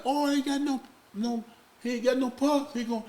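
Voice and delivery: high, loud, panicked nurse wailing; imitating crying nurse. Nurse panics over his missing pulse, high wail. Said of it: "She started hollering and crying".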